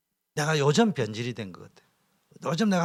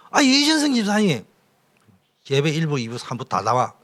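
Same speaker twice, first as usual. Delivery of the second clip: loud mock scolding; 6 dB louder than usual. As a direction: bark the order at him, mock-stern. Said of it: "이래 메시지는 하지".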